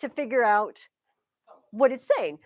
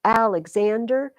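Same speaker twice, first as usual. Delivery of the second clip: Alexander with main stress on the third syllable; usual name stress. Shown as a demonstration. Teacher weighing the name's two stresses, third-syllable stress. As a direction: lighter beat on AL, stronger on ZAN in Alexander. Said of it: "Alexander almost has two".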